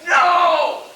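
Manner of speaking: loud, high burst of protest; angry denial. Acted. Henry denying he is losing his temper, angry shout. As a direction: insist hotly that you're perfectly calm.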